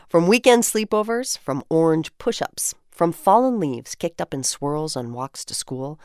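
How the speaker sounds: measured, lyrical poem recital; poem reading. Acted. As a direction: read each line like a treasured memory. Reads community poem aloud.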